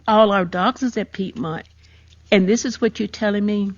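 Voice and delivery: mildly indignant, emphatic retelling; retold livid. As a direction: re-enact livid challenge to the doctors, held in check. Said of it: "And I'm just livid".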